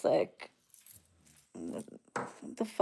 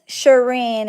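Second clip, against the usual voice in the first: Shireen said curtly and falling, pointed and cold; name said with attitude; 4 dB louder than usual. Shown as a demonstration. Friend who is upset greets her with attitude. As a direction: let the name land like a warning. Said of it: "that's how I know when somebody has an attitude".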